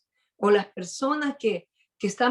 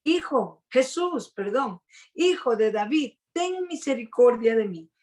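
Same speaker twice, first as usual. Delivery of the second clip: crying out; 2 semitones higher than usual. Retold or imitated. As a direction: call out to Jesus in a raised, begging pitch. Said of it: "se puso a gritar".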